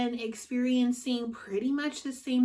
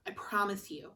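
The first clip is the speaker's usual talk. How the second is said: whispering; 6 dB quieter than usual. Real, not acted. Confiding advice to viewers.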